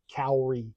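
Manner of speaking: Kaori as "COW-ree"; Tetsuo's pronunciation. Shown as a demonstration. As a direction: open "ow" sound at the start of Kaori. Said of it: "the only reason I pronounce it".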